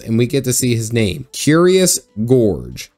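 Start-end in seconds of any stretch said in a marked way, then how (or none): 1.3-2.9 slow, disbelieving; slow deadpan. Real, not acted. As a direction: drag each word out. Reading absurd name.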